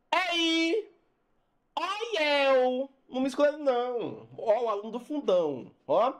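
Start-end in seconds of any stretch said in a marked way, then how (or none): 0.1-4.3 back-row student. Retold or imitated. Back-row pupil to group-forming classmates, calling out. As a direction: call out "ei" high and long, then plead. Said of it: "O que é que o aluno do fundão fala?".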